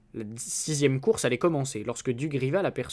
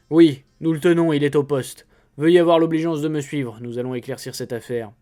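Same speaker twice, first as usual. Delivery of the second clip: a touch louder, official inspector tone; brisk inspector; 5 dB louder than usual. Acted. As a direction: take charge like a confident policeman. Fake inspector takes charge. (l'inspecteur, un peu plus fort et autoritaire)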